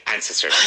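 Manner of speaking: Ancestors with the AN punched; stress on first syllable. Shown as a demonstration. Teacher models the word, stress at the beginning. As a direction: lean on the start of Ancestors. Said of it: "With emphasis at the beginning".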